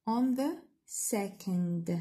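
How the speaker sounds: slow, stretched "on the second"; teacher marking the second syllable; stress on second syllable. Shown as a demonstration. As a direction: lean on "the second" slowly. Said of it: "وين جاي stress".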